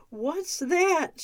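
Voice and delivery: high cooing question. A narrator's reading. Overdressed visitor coos at Alan over the duck, high and cute. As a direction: coo over it like a doting visitor. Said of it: "she cooed".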